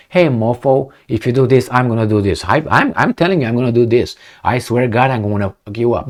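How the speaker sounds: thug talk. Retold or imitated. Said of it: "That's how they talk".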